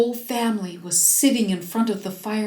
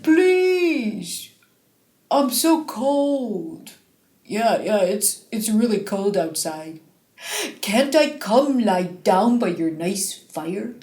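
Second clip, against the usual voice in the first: lightly voiced cold bear. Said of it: "But the bear only said".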